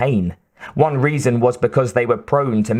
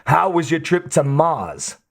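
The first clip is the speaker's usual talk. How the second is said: grinning Harry; 5 semitones higher than usual. A narrator's reading. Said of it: "Harry clapped him on the shoulder and grinned".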